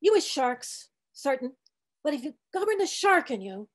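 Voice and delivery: put-on old cook preaching gently. Old cook coaxing the sharks in a gentler sermon.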